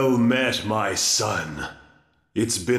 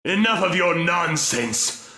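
angry outburst; 6 semitones higher than usual. Acted. Dracula rages at his son.

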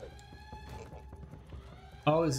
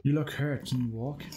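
lightly voiced princess, a bit raised; cartoon princess. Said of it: "I'll do the princess voice".

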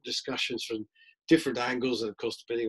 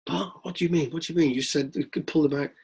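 higher, outraged question; indignant protest; 3 semitones higher than usual. Retold or imitated. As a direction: protest in disbelief. Rich woman protesting.

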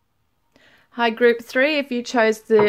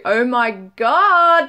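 drawn-out oh my God; 2 semitones higher, 5 dB louder, much slower than usual. Real, not acted. Reacts to card message.

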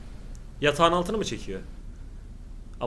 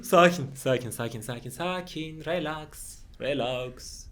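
calming himself; 4 semitones lower, 9 dB quieter, much slower than usual. Real, not acted. Calming himself during horror film.

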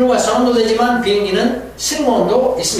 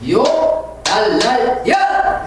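mock curse; 3 semitones higher, much slower than usual. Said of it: "시어머니 ... 욕을".

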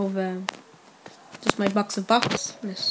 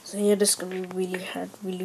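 whisper; 3 semitones lower, 8 dB quieter, faster than usual. Real, not acted. Whispered aside.

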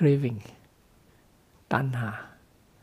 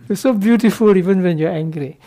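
flattering; 3 semitones higher, 7 dB louder than usual. Retold or imitated. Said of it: "then she become happy".

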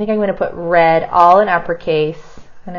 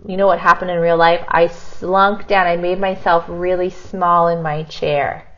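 ordinary talk

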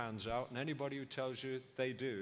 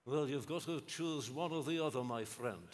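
quoting Lloyd-Jones. Retold or imitated. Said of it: "I can hear Peter telling me".

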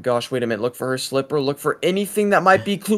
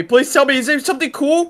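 eager; 6 semitones higher than usual. Shown as a demonstration. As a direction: beg like a kid.

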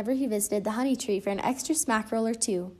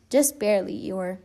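reassuring. Acted. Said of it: "Pooh reassured him".

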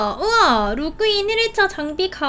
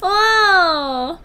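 slow words through giggles; laughing gush; 3 semitones higher, 4 dB louder, much slower than usual. Real, not acted. Gamer gushing at her cute pet, giggling. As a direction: coo over it, laughing.

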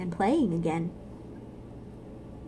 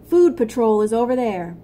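stern order; 7 dB louder than usual. Acted. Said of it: "barked a stern ant".

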